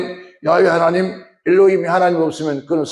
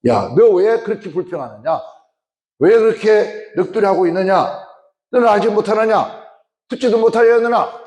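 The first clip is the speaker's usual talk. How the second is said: raised rebuking voice of God; God's stern rebuke, higher and firmer; voicing God rebuking; 4 semitones higher than usual. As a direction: speak as God scolding his people. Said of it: "하시는 하나님의 말씀이 그렇게 말합니다".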